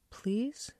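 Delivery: a small unvoiced whisper, begging; hushed, timid please. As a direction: breathe the word through the door, pleading. Child pleads at aunt's door.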